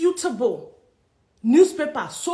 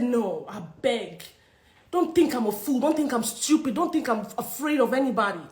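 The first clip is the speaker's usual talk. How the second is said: defiant retort; 3 semitones lower than usual. Retold or imitated. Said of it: "today I said".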